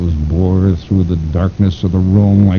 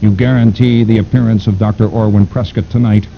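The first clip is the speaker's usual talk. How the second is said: sinister mastermind voice; 5 semitones higher, 5 dB louder than usual. Acted. Fu Manchu questions Pack.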